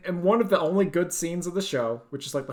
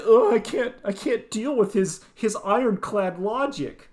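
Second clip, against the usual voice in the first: mock overwhelmed girl; 5 semitones higher than usual. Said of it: "she's just like".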